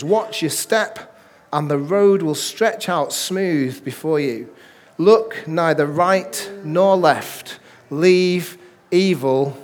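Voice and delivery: slow, measured Bible reading; solemn scripture read to the congregation. Acted. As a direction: read the verses slowly, letting each line land.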